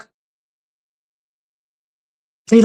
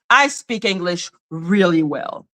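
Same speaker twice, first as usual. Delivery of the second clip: self-assured retort; 8 semitones lower, 4 dB quieter than usual. Retold or imitated.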